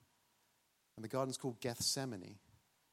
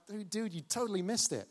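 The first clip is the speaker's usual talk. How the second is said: excited teasing; 7 semitones higher than usual. Acted. Peter teases Thomas.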